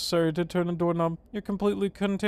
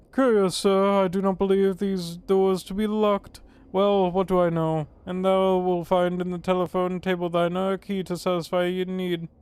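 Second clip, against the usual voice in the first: mock-Shakespearean, raised a little; archaic formal speaker; 3 semitones higher, 5 dB louder than usual. Player telling the courier where a key is, mock-archaic. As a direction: declaim it like old-time theatre. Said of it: "When did you start talking like this?".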